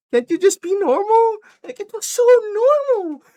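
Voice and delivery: very high, loud mock outburst; hammed-up screechy frustration; exasperated arguing. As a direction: yell it like an imitated lovers' quarrel. Acted argument between Bear and Nikki.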